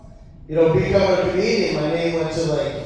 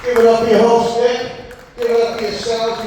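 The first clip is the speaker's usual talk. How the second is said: higher, louder hype call; crowd hype; 6 semitones higher, 7 dB louder than usual. Real, not acted. Comic on the mic pumping up the audience. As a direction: pump the crowd up.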